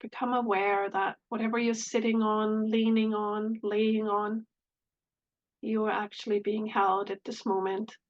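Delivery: calm meditation voice with long pauses; unhurried phrases with space between them; guided meditation. Real, not acted. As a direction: lead gently into the breath, leaving long silences.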